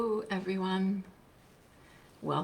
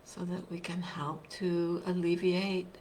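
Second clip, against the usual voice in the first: guided meditation; 4 dB quieter than usual. Real, not acted. Teacher leading online listeners into a seated practice, guided meditation. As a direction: guide them gently, leaving long silences between phrases.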